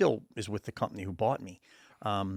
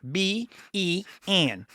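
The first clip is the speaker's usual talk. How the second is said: slow spelled-out letters; 9 semitones higher, much slower than usual. Retold or imitated. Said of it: "they would be like".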